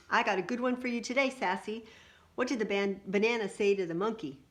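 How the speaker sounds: playful uncle telling a riddle; eager joke setup. Acted. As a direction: set up a silly riddle with gusto. Uncle Red sets up a joke.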